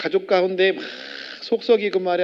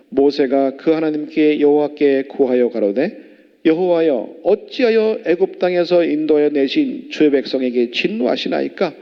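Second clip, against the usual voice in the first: scripture reading; 5 dB louder than usual. Acted. Congregation reads scripture aloud.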